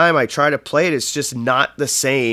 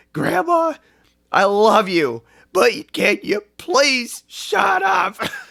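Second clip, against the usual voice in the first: fed-up, very high-pitched, rising frustrated outburst; 11 semitones higher than usual. Retelling the moment the brother turned to grandma: imitating a frustrated outburst. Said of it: "my brother is getting so frustrated".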